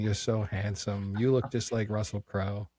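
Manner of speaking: slow, badly faked Polish accent. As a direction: gush slowly in a poor attempt at Polish-accented English. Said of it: "do a Polish accent".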